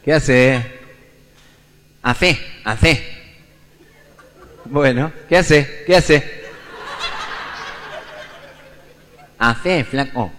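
slurred, blocked-nose asking; hammed-up gangoso customer; nasal gangoso voice. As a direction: mumble like a man with a cleft palate. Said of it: "un gangoso se mete en un kiosco y dice".

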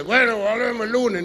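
loud shouted reply; loud mock shout of a friend; friends shouting back. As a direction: call back loud and cheerful. Friends answer the technician.

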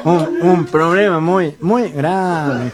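slow, halting mock nasal speech; comic speech impediment; gangoso. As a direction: drag it through the nose, consonants blurred. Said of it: "vos sos un gangoso igual que yo".

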